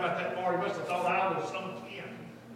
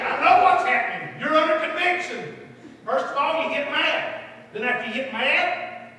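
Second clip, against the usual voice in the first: fervent preaching; 7 semitones higher, 8 dB louder than usual. Acted. Preaches to the congregation.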